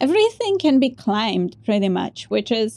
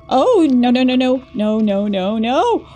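panicked; 4 dB louder than usual. Real, not acted. Swarmed by creatures, panicking.

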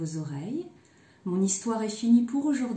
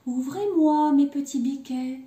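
higher, lilting sweet call; 5 semitones higher, 5 dB louder than usual. A narrator's reading. Mother goat showing her kids her password call, sweet lilt. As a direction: sweetly call the little ones to open up. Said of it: "je prendrai ma voix toute douce".

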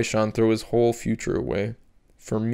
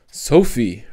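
louder shocked call of her name; horrified exclamation; 4 dB louder than usual. Acted. Mother shocked at daughter's outburst, horrified call. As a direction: gasp her name in horror. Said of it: "her mother exclaimed in horror".

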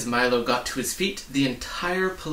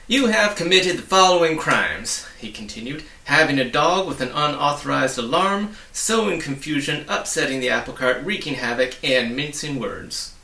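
higher, loud official reading; stern officer reading out crimes; pompous charge list; 4 semitones higher, 6 dB louder than usual. Acted. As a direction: read the charges like a proud officer. Policeman lists charges.

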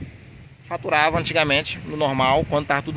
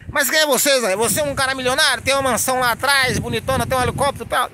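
higher, mocking challenge, partly quick; mock doubting viewer; 7 semitones higher, faster than usual. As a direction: poke fun at the skeptic's question. Imagined viewer doubting him.

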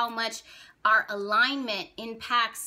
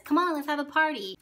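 party-loving Venus; 4 semitones higher than usual. Acted. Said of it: "Venus says".

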